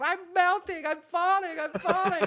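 shrieking high, hammed-up witch wail; mock witch dying as she falls; Wicked Witch of the West. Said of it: "The Wicked Witch of the West".

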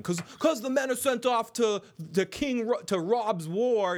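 high, hammed-up grumbling subject; high put-on voice of complaint; complaining petitioner.

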